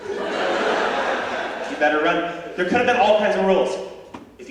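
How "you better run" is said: slow breathy menacing whisper; whispered threat. Pretend. Caveman with a rock whispering a threat, slow and menacing. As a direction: draw it out in a creepy hush. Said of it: "guy picks up a rock".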